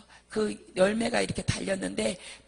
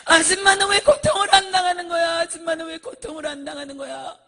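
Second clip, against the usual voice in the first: loud, high accusing yell; screamed accusation; 7 semitones higher, 11 dB louder than usual. Retold or imitated. People in torment demanding why she is spared, screaming. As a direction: yell the question out, repeating it without a break. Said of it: "소리를 지르는 거예요".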